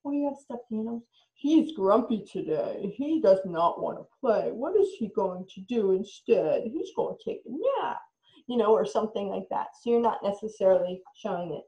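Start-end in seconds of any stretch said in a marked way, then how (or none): 1.3-8.0 slow, lightly voiced grumpy toy; playful toy voice. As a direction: play the grumpy stuffed animal lightly. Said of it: "playing with dolls".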